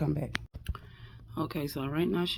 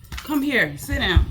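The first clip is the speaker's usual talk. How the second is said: firm command; 6 semitones higher, 5 dB louder, slower than usual. Real, not acted. Commanding the dog.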